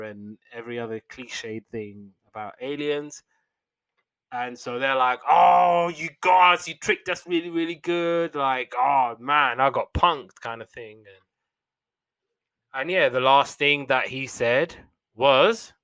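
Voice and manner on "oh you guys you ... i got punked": high, loud surprised cry. Retold or imitated. Tricked friends admit they got punked, high and loud. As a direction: exclaim high like you just got fooled.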